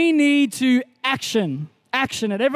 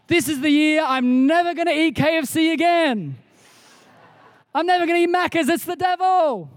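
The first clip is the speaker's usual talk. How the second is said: hammed-up New Year's resolution, pitched higher; mock solemn vow; 3 semitones higher than usual. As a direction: swear it off with mock zeal, voice rising higher.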